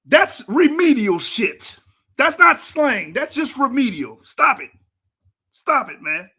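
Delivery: angry rant at a video host; exasperated scolding. Real, not acted. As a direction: lay into him. Scolding the mispronunciation.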